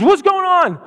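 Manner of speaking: put-on high, small toddler voice; little girl voice. Little sister asking what's wrong, small child voice. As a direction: chirp it like a two-year-old. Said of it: "She goes".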